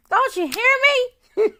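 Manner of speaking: slow, loud, high playful call through a laugh; laughing tease. Real, not acted. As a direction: tease them, laughing as you sing it out. Playful boast about her scent.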